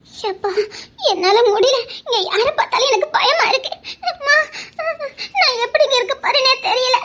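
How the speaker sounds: shaky, frightened, half laughing; a nervous girl on the verge of tears; scared, near tears. Acted. Frightened maid breaks down.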